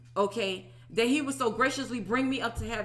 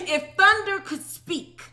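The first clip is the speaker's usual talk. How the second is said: slow, loud, higher booming proclamation; thunderous voice; 8 semitones higher, 8 dB louder, slower than usual. Shown as a demonstration. Showing the cohost the Father's voice, slow loud booming. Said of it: "that's the sound of the Father's voice".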